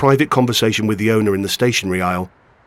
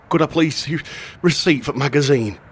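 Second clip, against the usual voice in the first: a touch breathless, higher-voiced shopkeeper; lightly voiced man short of breath from running after a boy; panting shopkeeper; 6 semitones higher than usual. A narrator's reading. Shopkeeper to a boy he chased, mildly out of breath. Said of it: "he panted".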